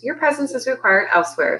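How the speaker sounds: high, formal summons; announcing. A narrator's reading. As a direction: deliver an official dismissal. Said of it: "Lionel Tailwugger announced".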